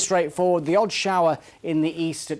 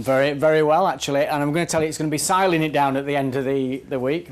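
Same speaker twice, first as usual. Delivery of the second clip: broad Yorkshire; 4 dB louder, faster than usual. Acted. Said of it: "That's proper Yorkshire".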